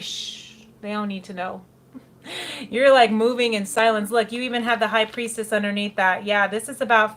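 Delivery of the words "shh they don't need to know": soft whispered shh; secretive whisper; shushing. Acted. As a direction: hush them conspiratorially. Sneaking out secretly.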